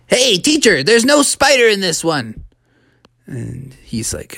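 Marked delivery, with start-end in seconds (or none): 0.1-2.4 higher, mild yell across the room; yelling to teacher. Acted. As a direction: call out to the teacher, half-hearted yell. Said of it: "he started yelling".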